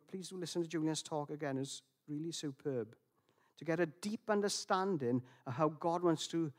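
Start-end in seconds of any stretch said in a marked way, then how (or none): 0.1-2.9 a soft whispered aside. Real, not acted. Recommending Julian's talk in a whispered aside. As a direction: lean in and whisper it.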